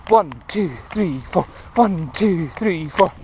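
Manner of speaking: slow plodding one, two, three, four; too slow count. Shown as a demonstration. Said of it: "that's too slow".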